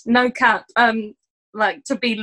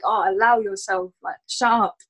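dismissive retort; 5 semitones lower than usual. Retold or imitated. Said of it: "you'd be like".

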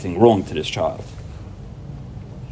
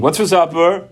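put-on whiny kid; 5 semitones higher than usual. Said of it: "stop being".

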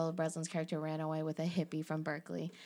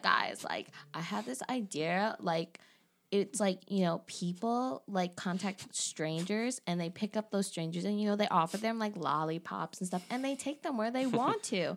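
put-on valley girl. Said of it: "She has a Valley Girl accent".

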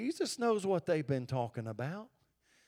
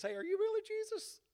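doubting John; 3 dB quieter than usual. Retold or imitated. John's doubting question voiced.

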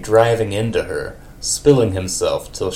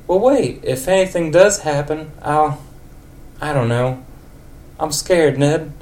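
put-on high old lady voice, scared; 7 semitones higher than usual. Old lady Marge tells Ned she's scared. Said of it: "old lady for Marge".

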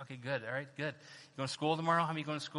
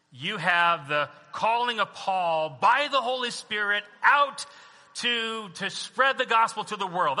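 raised, emphatic preacher's delivery; preaching; 5 semitones higher, 5 dB louder than usual. Real, not acted. Pastor proclaiming Paul's extraordinary calling, preaching. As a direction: proclaim it to the congregation.

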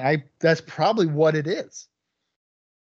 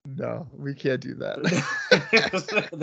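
laughing; much slower than usual. Real, not acted. Laughing at silly show name.

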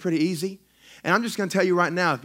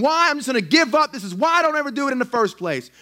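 frustrated giving up; 9 semitones higher, 5 dB louder than usual. Retold or imitated. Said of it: "And you think".

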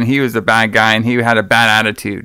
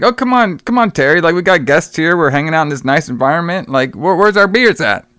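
coaxing host; 3 semitones higher than usual. Retold or imitated. Host urging Terry to play along, coaxing. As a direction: imitate a host cajoling his guest.

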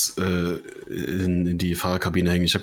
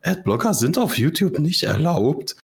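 high, slow official notice voice; robotic warning voice; 7 semitones higher, slower than usual. Retold or imitated. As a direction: read it like a stiff system message. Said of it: "dieses Fenster und sagt". (steife Warnmeldungsstimme)

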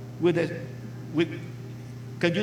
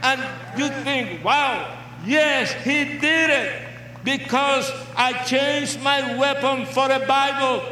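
preaching at full force; 3 semitones higher than usual. Real, not acted. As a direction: proclaim it to the crowd.

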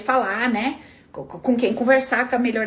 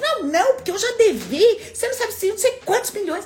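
higher, boastful imitation of a bigger debtor; another debtor; 9 semitones higher than usual. Another debtor topping the story, higher boastful voice. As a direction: show off your worse debt. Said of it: "Aí vem outro".

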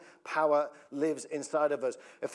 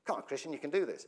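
under my breath; 2 semitones lower, 5 dB quieter, faster than usual. Shown as a demonstration. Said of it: "just under my breath".

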